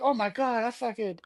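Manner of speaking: high, laughing mock distress; laughing panic. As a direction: wail guilt while cracking up. Retelling own guilty panic, laughing.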